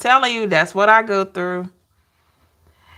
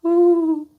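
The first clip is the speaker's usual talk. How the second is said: owl call; 9 semitones higher than usual. Retold or imitated. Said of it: "that's how they sound".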